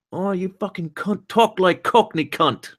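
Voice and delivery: hammed-up high-pitched drunken uncle. Rereading chatter's Cockney demand, drunken uncle voice. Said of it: "read this one with drunken uncle's voice".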